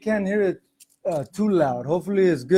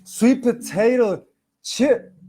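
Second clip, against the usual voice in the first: slow, slipped-in Boston accent on "sweet potato"; 5 semitones higher, slower than usual. Real, not acted. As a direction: say "sweet potato chip" slowly, Boston-style. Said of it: "like, a Boston accent".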